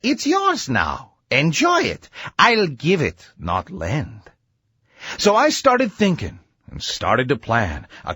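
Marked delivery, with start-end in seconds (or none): 0.0-4.2 a hint of a confident inventor; Doc Sam's voice. Doctor tells his friend to help move the machine, lightly voiced. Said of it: "So he said to me".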